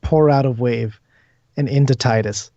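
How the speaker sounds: measured, phrase-by-phrase narration; game master's scene setting. Acted. Game master describes ghostly tentacles calming a player, measured narration. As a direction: describe the vision steadily, pausing between images.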